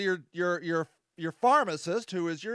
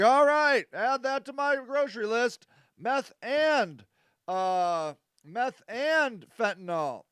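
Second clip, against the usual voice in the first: hammed-up happy customer; 4 semitones higher, slower than usual. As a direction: cheerfully order drugs like groceries. User hooked in skit.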